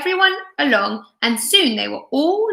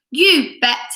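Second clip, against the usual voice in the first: mild yell; 3 semitones higher, 3 dB louder than usual. Acted. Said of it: "yelled Lester".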